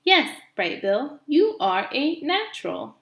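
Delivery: trying to sound motherly. Acted. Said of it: "trying to sound like a good mother".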